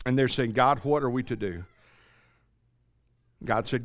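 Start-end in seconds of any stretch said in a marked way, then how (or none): 0.5-1.6 much lower and softer, a heartbroken plea of "God, what are we to do?"; broken weeping plea. Acted. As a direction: sink the voice, broken and spent. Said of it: "they're broken, they're crying, they're weeping".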